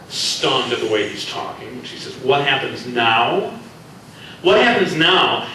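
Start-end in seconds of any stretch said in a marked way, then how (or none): 2.2-3.6 slow, rising, mock-puzzled echo of his words; slow questioning echo. Reika repeats his question. 4.4-5.5 higher and louder, falling firmly on what; sharp retort. Acted. Reika answers sharply.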